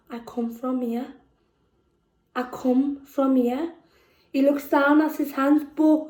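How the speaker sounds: measured, deliberate poetry delivery with long pauses; spoken word poem. Acted. Reads her poem aloud.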